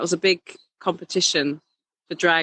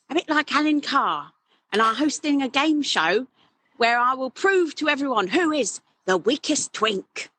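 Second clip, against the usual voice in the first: much higher camp game show host; Alan Carr; 7 semitones higher than usual. Retold or imitated. Drag king hosting a spoof game show as Alan Carr, higher. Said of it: "speaking a bit like this".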